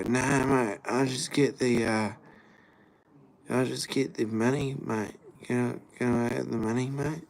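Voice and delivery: lightly put-on junkie turning down water; mock junkie refusing water. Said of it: "and they go".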